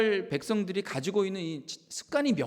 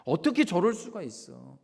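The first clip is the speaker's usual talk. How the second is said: mock indignant shout; 3 semitones higher, 5 dB louder than usual. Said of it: "소리 지르는 거예요".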